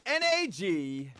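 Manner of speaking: slow, spelled out for the chat; slow dictation. Shown as a demonstration. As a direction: read it out slowly and clearly. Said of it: "For a chance to win a free random Steam key".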